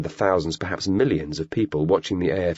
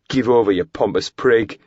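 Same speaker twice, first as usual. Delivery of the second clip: dismissive; 4 semitones higher, 5 dB louder than usual. Acted. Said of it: "Nick said dismissively".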